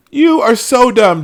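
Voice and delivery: slow, loud, drawn-out "you are so dumb"; internet meme voice. Retold or imitated. Quoting the meme guy at Joe, slow and loud. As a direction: stretch each word out like the meme guy mocking someone. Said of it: "the guy that goes".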